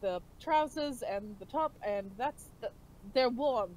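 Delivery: put-on a light, half-hearted British accent; bad British accent. Bard handing clothes to party mate, bad British accent. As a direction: put on a clumsy British accent, barely there. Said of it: "is that your British accent impersonation".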